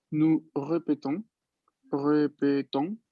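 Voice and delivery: slow répétons, both E closed and equal. Shown as a demonstration. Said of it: "las dos son iguales". (répétons lento, las dos E cerradas iguales)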